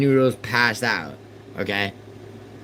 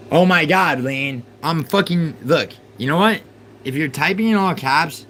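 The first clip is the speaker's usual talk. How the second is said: exasperated outburst; 4 semitones higher than usual. Real, not acted. Streamer losing patience with a chatter, exasperated. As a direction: throw up your hands and yell.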